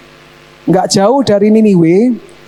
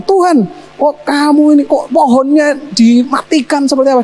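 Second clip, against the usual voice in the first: higher, indignant protest; mild acted outrage; Jonah angry; 6 semitones higher than usual. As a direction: complain hotly to God. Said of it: "Dia marah-marah sama Tuhan".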